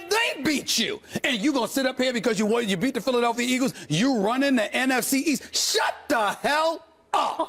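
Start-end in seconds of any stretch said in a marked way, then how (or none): 5.5-7.5 exasperated. Pretend. Pundit scolds boastful players.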